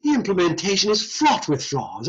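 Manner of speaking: put-on British accent, broad vowel in "fraught"; mock British. Shown as a demonstration. Lecturer joking that the phrase sounds British, mock British accent. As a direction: play up a British "fraught with flaws". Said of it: "it sounds almost British".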